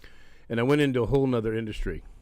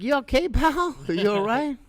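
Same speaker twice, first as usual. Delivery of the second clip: concerned check-in; 12 semitones higher than usual. Retold or imitated. Asks a sweaty, giddy fan.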